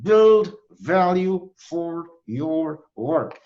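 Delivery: slow, each sound forced out with the teeth clenched; through clenched teeth. Shown as a demonstration. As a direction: read it slowly, jaw locked, lips and tongue working hard. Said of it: "you read aloud for five minutes every day like this".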